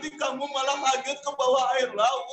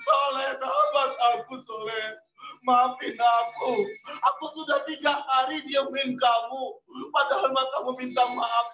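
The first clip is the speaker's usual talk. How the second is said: tearful pleading while dragging him; crying plea. Acted. Jami dragging his friend out, tearfully begging. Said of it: "diseret keluar sambil nangis".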